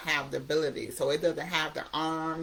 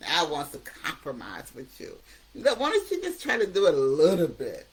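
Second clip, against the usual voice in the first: coaxing addictive voice; 3 semitones higher, 5 dB louder than usual. Retold or imitated. Addiction voice bargaining with the quitter, laughing and coaxing. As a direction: sweet-talk him out of quitting, chuckling. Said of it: "your addictive voice is gonna say something like".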